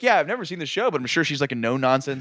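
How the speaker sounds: imitating Frank. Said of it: "Frank's like".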